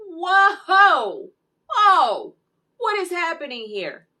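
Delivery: high, loud whoas of alarm; shocked reaction. Retold or imitated. Viewer re-enacts reaction to what is happening, shocked outcry. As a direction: cry out in loud, high-pitched disbelief.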